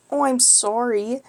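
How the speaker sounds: lightly voiced, drawn-out anime apology; anime main character. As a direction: apologize like an anime protagonist, slowly. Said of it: "that anime main character tone".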